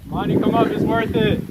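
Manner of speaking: loud call from high up; shouting. Real, not acted. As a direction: call them up the steps. Calling down to friend.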